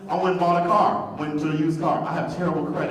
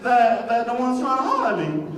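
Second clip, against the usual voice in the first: offended disbelief; 8 semitones higher than usual. Retold or imitated. Straight man at gay club upset nobody hits on him. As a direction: whine it like a wounded ego. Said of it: "And I started thinking".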